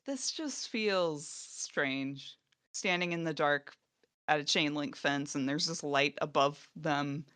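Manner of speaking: quiet, slowed, eerie musing; half whisper a strange dark scene; hushed and slow. Retold or imitated. Podcast host recalling the dark prison fence scene, hushed. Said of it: "I just was like".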